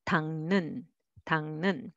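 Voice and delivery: 닦는 said as one word with ng; 닦는 nasalized; linked pronunciation. Shown as a demonstration. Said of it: "but together".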